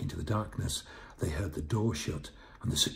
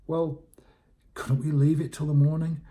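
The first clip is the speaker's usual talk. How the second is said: high, loud, pleading retort; high-voiced reluctant objection; reluctant sidekick; 9 semitones higher, 7 dB louder than usual. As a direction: argue back in a pitched-up voice. Jonty argues back, reluctant.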